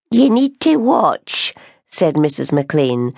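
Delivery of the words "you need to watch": put-on warning old woman. Warning the baker.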